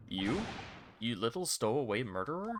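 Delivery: hostile sailor in a lightly put-on Russian accent. Surly sailor insults the stowaway, lightly Russian-accented. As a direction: sneer it like a surly Russian crewman.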